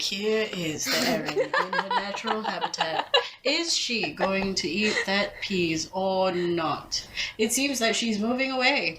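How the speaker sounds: observe her like an animal in the wild; David Attenborough impression. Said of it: "does the Sir David Attenborough accent".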